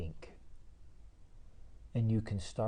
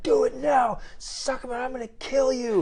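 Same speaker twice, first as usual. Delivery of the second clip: much higher, louder menacing yell; retold yell; 9 dB louder than usual. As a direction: threaten him at full volume. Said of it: "he's like".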